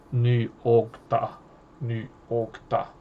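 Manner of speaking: slow, spaced-out eerie chant-like sound; eerie repeated noise, acted out. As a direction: imitate an eerie recurring sound, evenly paced. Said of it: "this sound is very eerie".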